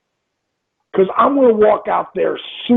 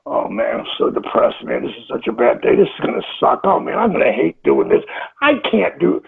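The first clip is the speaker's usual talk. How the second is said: mopey self-talk; 2 semitones lower than usual. Retold or imitated. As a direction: sulk the words as someone who has given up. Acting out depressed negative self-talk.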